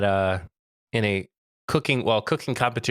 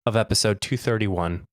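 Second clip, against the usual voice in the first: grand entrance announcement. Pretend. Mock funeral opening by reverend.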